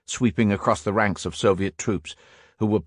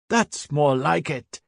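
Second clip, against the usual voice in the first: raised, slow and savouring; gleeful shout; 7 semitones higher, slower than usual. A narrator's reading. Can-Can cheering the shelling of the enemy, shouting. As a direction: crow it out over the barrage. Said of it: "shouted Can-Can".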